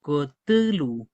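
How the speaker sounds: Cthulhu said slow with a falling end; neologism demo. Shown as a demonstration. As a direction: model the new word. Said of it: "Uno dice".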